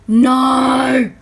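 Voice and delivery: loud disappointed no; loud, crushed no; dismayed cry. Real, not acted. Item out of stock.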